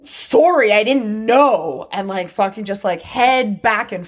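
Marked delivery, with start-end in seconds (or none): 0.0-1.9 snotty fake apology. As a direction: mimic her sulky, sarcastic apology. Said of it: "fucking attitude shit".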